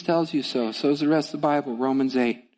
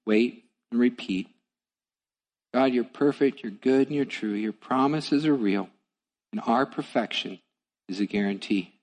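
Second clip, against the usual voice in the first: closing prayer; 3 semitones lower than usual. Acted.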